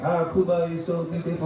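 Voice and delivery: a hint of a dreamy white tourist; lightly voiced smug traveller sigh; mock tourist. Comic mocks tourist raving about Cuba. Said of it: "that white guy who goes to Cuba".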